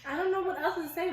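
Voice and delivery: giggling while admitting defeat; laughing. Real, not acted. Laughing at her own failed British accent, giggling.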